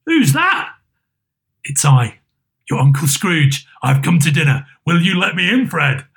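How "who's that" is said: higher, lightly voiced nephew; a hint of a surprised young man; Fred's voice. Fred asking who is at the door, light surprise.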